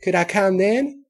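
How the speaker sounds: put-on high, loud hopeful little girl; a kid begging to come along; young filly voice. A narrator's reading. Apple Bloom's voice.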